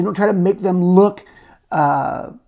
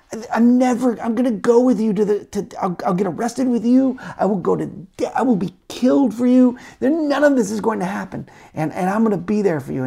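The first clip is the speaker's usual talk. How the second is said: higher, earnest overeager pledge; eager vow; 6 semitones higher than usual. Acted. Peter to Jesus hours earlier, higher, eager boastful promise. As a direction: promise everything, all in.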